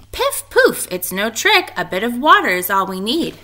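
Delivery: high, loud witch with shrill piff poof; promising witch. A narrator's reading. Teacher reading, Naggy Witch promising the monster. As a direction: coax the monster sweetly. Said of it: "promised Naggy Witch".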